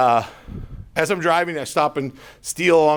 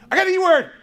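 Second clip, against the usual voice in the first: laughing; 4 dB louder, faster than usual. Real, not acted. Jokey aside to the audience.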